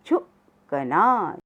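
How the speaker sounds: झुकना stretched as झु-क-ना; slow syllable reading. Shown as a demonstration. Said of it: "साथ साथ बोलेंगे सब". (झुकना धीरे-धीरे अक्षर तोड़कर)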